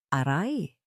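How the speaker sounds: short pained "aray" groan; pained cry. A narrator's reading. Wife faking a stomach ache to escape. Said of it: "Daing niya".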